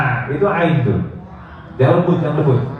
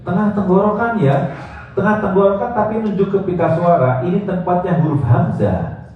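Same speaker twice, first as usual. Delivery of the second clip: mock know-it-all teacher; imitating other teachers; 5 semitones higher than usual. Teacher mimicking other teachers explaining ain. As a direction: lightly voice a mistaken teacher. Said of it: "Seringkali bilang gini".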